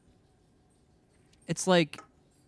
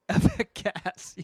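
avec gas laughed, slow and higher; laughing French accent; 9 semitones higher, 5 dB louder, much slower than usual. Pretend. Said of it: "You guys trying to speak French?".

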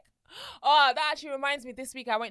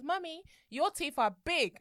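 put-on slow child voice; 5 semitones higher, slower than usual. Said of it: "she goes".

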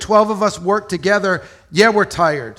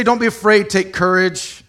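higher, louder breezy reassurance; louder, higher casual version; dismissive brush-off; 3 semitones higher, 4 dB louder than usual. Retold or imitated. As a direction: toss it off like it's no big deal. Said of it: "He didn't say".

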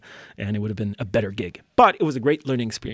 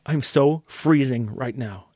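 shivering; slower than usual. Real, not acted. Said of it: "I'm freezing".

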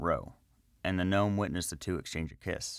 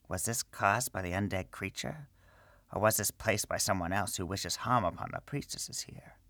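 whispering; 3 semitones higher, 3 dB quieter than usual. Acted. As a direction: whisper it to yourself. Wizard's inner thoughts.

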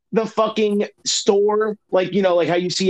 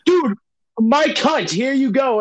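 high call out; 6 semitones higher, slower than usual. Retold or imitated. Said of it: "And I'm like".

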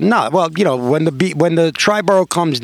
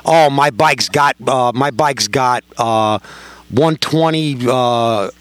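mock bragging. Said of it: "he starts goofing on me".

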